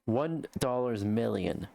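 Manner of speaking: slow, deadpan robotic read of "One dollars million"; mock the stiff AI narrator, slowly; imitating the AI voice. Streamer mimicking the AI news voice to chat, slow and deadpan. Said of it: "a person say".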